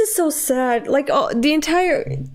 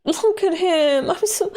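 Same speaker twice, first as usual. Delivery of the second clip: laughing through tears; 7 semitones higher than usual. Real, not acted. Laugh-crying over the character.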